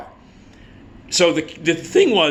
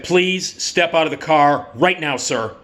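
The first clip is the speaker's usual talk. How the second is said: retold police command, more forceful; firm officer order. Officer orders driver out right now, firm and insistent. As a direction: repeat the request as an insistent order.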